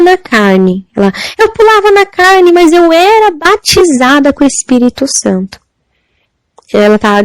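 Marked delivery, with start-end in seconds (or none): 1.4-5.6 high-pitched wailing cry that eases toward the end; imitated crying out. Young woman in hell confessing, imitated high wail. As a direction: cry it out high, then come down gradually. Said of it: "uma jovem que ela gritava".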